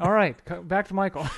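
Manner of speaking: mock anchor throwing back to studio; news voice. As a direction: hand back like a TV newscaster. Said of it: "putting on a news voice".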